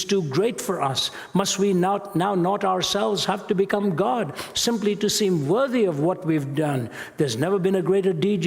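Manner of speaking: rising, urgent sermon reading of the questions; impassioned reading. Acted. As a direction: press each question on the hearers. Reading madman's speech.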